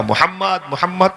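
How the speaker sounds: high-pitched call across the hills. Retold or imitated. Umme Ayman calling for the missing boy, high and urgent. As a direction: call the lost boy's name, high and urgent. Nurse searching for missing child.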